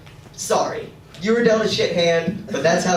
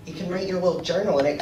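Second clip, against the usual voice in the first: mom impression; 4 dB quieter, faster than usual. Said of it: "my mom talks like a gay man".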